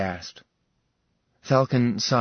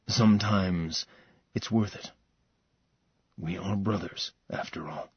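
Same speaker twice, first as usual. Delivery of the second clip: quiet, fading to a whisper; 3 semitones lower, 5 dB quieter than usual. Acted. Falcon tells his brother softly.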